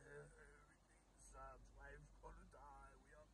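a hammed-up Eeyore sigh of a voice; gloomy Eeyore. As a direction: drag every word like a sad donkey. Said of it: "uh, Eeyore".

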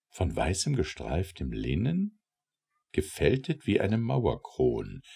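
ordinary delivery

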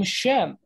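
"Shem" drawn out, starting on sh; sh pronunciation. Shown as a demonstration. Teacher introducing the name for comparison, sh pronunciation. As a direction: say "Shem" slowly with sh at the front. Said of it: "like the word, the name".

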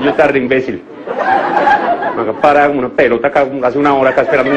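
low, slow words through shut teeth; through clenched teeth. Retold or imitated. Angry girlfriend waiting, through clenched teeth. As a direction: grit your teeth and hiss it out. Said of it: "con los dientes así".

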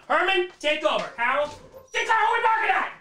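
sweet high voice for the dogs; high dog-talk voice. Real, not acted.

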